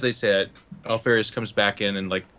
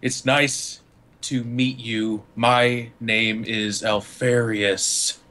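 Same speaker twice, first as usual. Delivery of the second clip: trembling; much slower than usual. Acted. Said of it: "he's, like, trembling a little bit".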